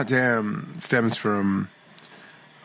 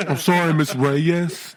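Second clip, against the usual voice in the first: high, slow sheepish apology; funny apologetic voice; 4 semitones higher, slower than usual. Pretend. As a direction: stretch out a meek, goofy sorry.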